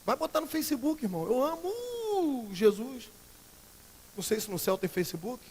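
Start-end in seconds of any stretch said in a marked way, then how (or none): 1.3-3.1 very slow, higher, drawn-out "amo"; mock piety. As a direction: parody a showy Facebook post. Mocking Facebook piety post.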